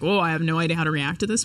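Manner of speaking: ordinary delivery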